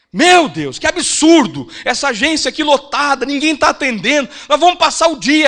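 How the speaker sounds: loud, indignant griping at the crowded bank; loud outraged complaint. Retold or imitated. Old lady in the packed bank complaining, loud and outraged. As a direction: complain loudly so the whole queue hears. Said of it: "Falou bem alto".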